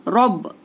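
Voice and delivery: "रब" with a thick, full R; full, heavy R. Shown as a demonstration. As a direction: demonstrate "रब" with a heavy opening R. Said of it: "ये हो गया पुर". ("रब" की र पुर यानी मोटी)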